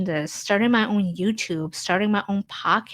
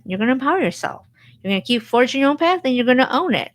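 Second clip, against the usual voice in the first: fast, higher, building pep talk; rallying pep talk; 4 semitones higher, 4 dB louder, much faster than usual. Real, not acted. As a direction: fire the viewer up, quick and rising. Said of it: "rallying the viewer".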